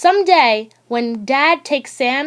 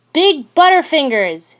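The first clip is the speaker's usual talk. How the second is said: louder, higher taunting yell; extra loud yell; 5 semitones higher, 4 dB louder than usual. Acted. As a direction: shout it across the room to tease. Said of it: "yells Holly in her extra loud voice".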